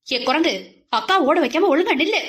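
big-sister scolding shout, quick and high. Acted. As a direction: chase him down with a shout. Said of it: "என கத்தியவாறு".

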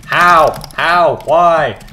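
hammed-up why; mock exasperation. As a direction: throw up your hands in fake disbelief. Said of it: "And I'm just like".

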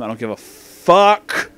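fuck drawn out slow and loud; stress on fuck. Real, not acted. Reviewer dismissing the hair issue, loud stress on fuck. Emphatic swearing in a rant.

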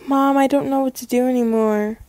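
soft, discouraged confession; defeated. Acted. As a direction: admit defeat quietly to mom. Defeated call to mom.

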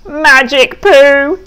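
high, slow, gleeful exclaim; excited. Acted. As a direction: savour the words with glee. Pig repeats Duck's claim.

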